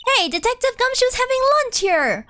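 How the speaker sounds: calling out. Acted. Calling out across restaurant.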